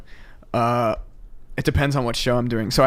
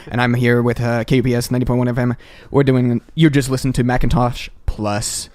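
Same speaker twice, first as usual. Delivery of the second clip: lightly voiced radio host sign-on; quick, easy DJ patter, lightly performed; vaporwave radio DJ. Shown as a demonstration. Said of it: "show this newbie how it's done".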